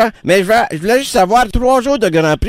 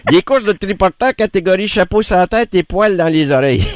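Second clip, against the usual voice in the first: words through giggles; riant en parlant. Real, not acted. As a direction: laugh through the joke. Blague au téléphone, rires. (en riant)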